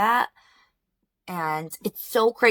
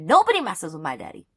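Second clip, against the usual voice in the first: fierce protective; 7 dB louder than usual. Real, not acted. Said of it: "'Cause I'm that mad".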